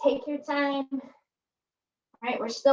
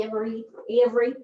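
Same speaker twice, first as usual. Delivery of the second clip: slipping into an unplanned Hoosier-like accent; accidental odd accent; faster than usual. Real, not acted. Coach slipping mid-workout into an accidental accent. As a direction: let an accidental Hoosier-like accent colour the word "every". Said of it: "not sure what accent that was".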